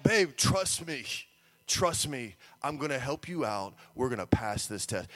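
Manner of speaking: earnest, low-pitched promise; reassuring father. Retold or imitated. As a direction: reassure your little girl, low and sure. Father reassures his upset daughter.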